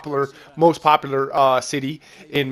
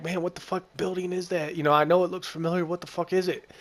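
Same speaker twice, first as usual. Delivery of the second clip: softer, puzzled mutter under the breath; muttering to himself; 3 semitones higher, 6 dB quieter than usual. Retold or imitated. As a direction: mumble it quietly, squinting at the building. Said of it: "I'm like".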